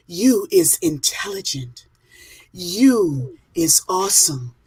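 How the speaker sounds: slow mirror pep talk; slow affirmations. Retold or imitated. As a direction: say each slowly to your reflection. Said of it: "she's like".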